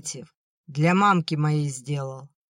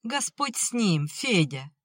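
high-started, cautious plea; lightly voiced anxious mother soothing her son; wary; 4 semitones higher than usual. A narrator's reading. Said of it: "опасливо проговорила мать". (опасливо, примирительно)

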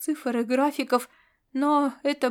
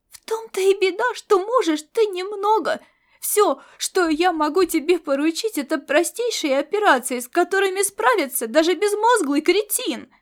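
loud, high scornful scolding; cat belittling the mercenary, loud and high; contemptuous anger; 6 semitones higher, 5 dB louder than usual. Acted. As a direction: pour scorn on him at full volume. Cat insults Laszlo.

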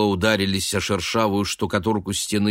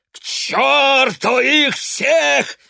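high, loud, slow roar; 6 dB louder, much slower than usual. A narrator's reading. Father roaring at his son. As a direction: bellow it out in rage. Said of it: "взревел Гант".

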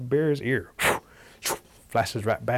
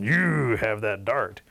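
bear warning. Acted. Bear warns the Cherokees.

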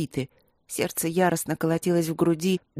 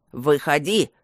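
shout; 4 semitones lower, 4 dB louder, slower than usual. A narrator's reading. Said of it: "крикнул тот".

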